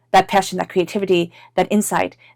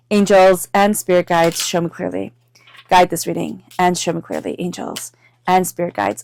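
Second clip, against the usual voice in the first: spoken invocation. Real, not acted. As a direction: call on the guides in even, repeated phrases. Invokes guides while shuffling cards.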